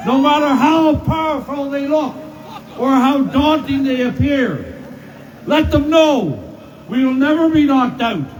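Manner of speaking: rising rally oratory, punching each line; rally a cheering crowd; roaring rallying speech. Real, not acted.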